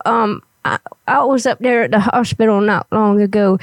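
lightly voiced old granny; a hint of a little old lady. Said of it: "I gotta get my old granny voice up here".

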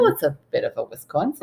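quick Wisconsin accent impersonation; playful Midwestern Wisconsin accent. Shown as a demonstration. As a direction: slip into a bit of Wisconsin accent. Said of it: "Oh, there it is".

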